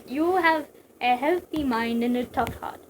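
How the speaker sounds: put-on slow, shaky go at Russian accent; attempted Russian accent. Mantis praising Snake's mind, attempted Russian accent. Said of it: "I can't do a Russian accent".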